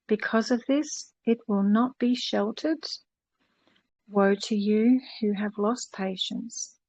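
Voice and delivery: slow solemn reading of scripture. Acted. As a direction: read it like a solemn lesson from the Bible. Reads scripture aloud.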